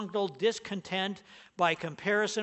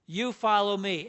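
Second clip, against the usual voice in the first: You said firmly, a little louder; stress on You; 4 dB louder than usual. Shown as a demonstration. Preacher repeating Jesus' words to Peter, You stressed. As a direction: put the weight on You. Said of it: "it's emphasized".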